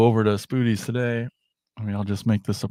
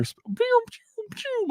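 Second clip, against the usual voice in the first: squeaky toy blaster noises, pitched way up; laser pew sounds; 4 dB quieter than usual. Retold or imitated. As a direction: imitate a kid's laser gun going pew pew. Retells toy laser firing.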